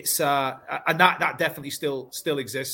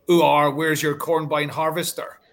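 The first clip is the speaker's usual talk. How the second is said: mock West Country farmer accent, louder; 5 dB louder than usual. Schoolkids mocking the new boy in a mock West Country accent. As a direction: playground tease in a hammed-up West Country accent. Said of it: "I'm just not from the Southwest".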